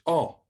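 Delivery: "o" as in English hot; vowel demo. Shown as a demonstration. Teacher introducing the next vowel, "o" as in hot. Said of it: "in the English word hot".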